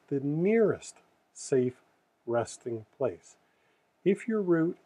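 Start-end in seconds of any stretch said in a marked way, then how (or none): 0.1-3.4 slow, deliberate "nearest safe resting place"; emphasized key words. Shown as a demonstration. Explaining the key words to truckers, slowed and stressed. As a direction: drag out "resting place" to drive it home. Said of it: "the key words that I want to emphasize".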